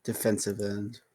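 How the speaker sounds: subdued, somber answer. Real, not acted. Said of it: "you said that so somberly".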